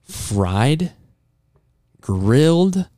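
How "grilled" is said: excited. Real, not acted. Excited listing of free food.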